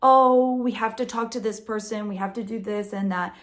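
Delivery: loud opening, then fussy bureaucrat sigh; clerk's excuses, loud start then fading; mock French excuse. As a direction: brush them off with busy excuses. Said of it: "it's always kind of like".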